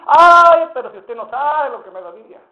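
un "Ay" chillado alto y fuerte, luego la queja; excusa quejumbrosa. Retold or imitated. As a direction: hermano que se hace la víctima. Hermano se excusa quejándose. (el hermano se excusa ante el pastor con un ay exagerado)

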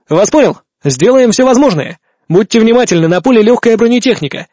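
urgent reply. Acted. Officer answers radio in battle.

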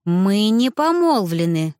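"помолвлены" pressed hard and slow; each word set down firmly, stress on "помолвлены"; firm insistence. A narrator's reading. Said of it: "с нажимом повторила я".

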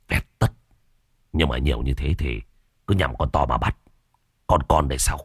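a lazy boss growling commands from his bed; gruff gang boss. Acted. Boss Trung Điên orders his gang to raid the village, low gruff voice. Boss answers about puppies.

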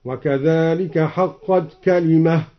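slow recitation, كلمة ending in a breathed h, "kalimah"; stop on ha. Shown as a demonstration. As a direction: pause on كلمة with final h, not t. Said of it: "ووقف على قوله تعالى: كلمة ربك بالهاء".

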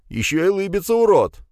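high-pitched insult, loud at the end; indignant outburst. A narrator's reading. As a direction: sputter outrage, punching the last word. Pegasov rages at smirking Krug.

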